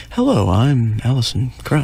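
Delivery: lightly put-on demure singer introducing herself; mock the expected polite introduction, just slightly put on. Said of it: "you think she'd be".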